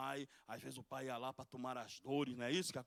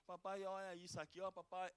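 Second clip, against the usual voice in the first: put-on higher and much softer, like a child to daddy; tender child's plea; 4 semitones higher, 5 dB quieter than usual. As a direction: pretend to be a hurting child calling papai. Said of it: "vai pra pertinho dele".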